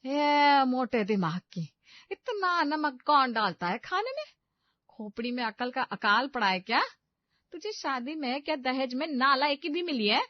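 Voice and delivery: mother-in-law screaming insults at the bride; furious scolding. Acted. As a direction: tear into her for ruining the food. Mother-in-law berates bride over salt.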